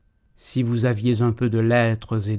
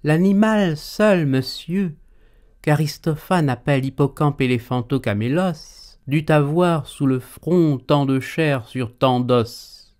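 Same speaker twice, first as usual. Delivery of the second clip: pedantic; 3 semitones higher than usual. Acted. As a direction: show off your learning. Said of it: "Pédant".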